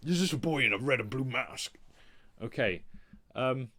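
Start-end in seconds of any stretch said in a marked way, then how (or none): 0.1-1.8 calm menacing crime boss, louder; Kingpin impression. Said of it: "do your Kingpin impression".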